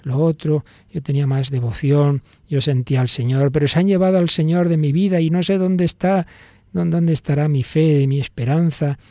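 imitating a self-pitying moan; tearful lament. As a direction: lament a lost faith, without real tears. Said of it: "estamos nosotros así llorando".

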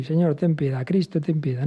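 mildly mocking, routine recitation of "Señor, ten piedad, Cristo, ten piedad"; rote mass response. Shown as a demonstration. Priest mimicking the congregation's routine mass response, mildly mocking. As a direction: say it like a bored churchgoer going through the motions. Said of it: "pero lo decimos así".

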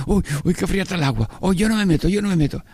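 high, fast squeal at cold water; in ice cold water. Retold or imitated. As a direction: flinch from freezing sea water. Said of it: "como cuando va la gente a la playa".

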